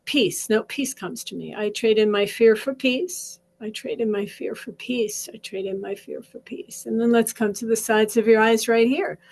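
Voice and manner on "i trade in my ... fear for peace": fading affirmation. Shown as a demonstration. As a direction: let the affirmation fade to a hush. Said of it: "I'm gonna say".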